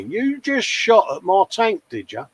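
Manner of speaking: put-on slow, high-pitched start in a faintly Russian accent; badly faked, slightly Russian accent; mock Russian accent. Model tank commander accusing someone of shooting his tank, slightly Russian accent. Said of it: "In a slightly Russian accent".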